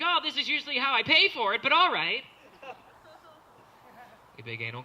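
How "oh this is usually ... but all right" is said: higher, shrugging acceptance; resigned bro. Retold or imitated. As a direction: go along with it. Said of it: "He's like".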